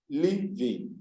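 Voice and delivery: "living" in two separate beats, liv, ing; teacher breaking "living" into two parts; divided into syllables. Shown as a demonstration. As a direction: split "living" after the v. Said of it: "I have divided into two parts".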